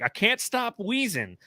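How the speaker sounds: high and slow, like a sick cashier; wheezy cashier. Retold or imitated. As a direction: drag it out high, complaining of wheezing. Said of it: "And she's like".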